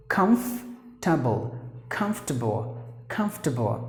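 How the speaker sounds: Comfortable as KUMF-tuh-bul, falling; correct pronunciation. Shown as a demonstration. Teacher drilling learners, Comfortable reduced to kumf-tuh-bul. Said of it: "how we have to pronounce the word".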